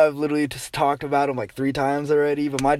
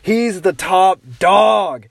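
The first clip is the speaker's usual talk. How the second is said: excited brag; 2 semitones higher than usual. Real, not acted. Excited aside telling about his dad.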